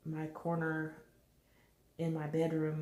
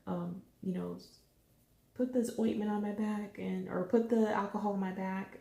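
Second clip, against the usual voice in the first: hammed-up begging, higher and louder; mock pleading; 4 semitones higher, 3 dB louder than usual. Mom begging her husband for ointment, hammed-up pleading. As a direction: beg like you can't stand the itch. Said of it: "I'm like".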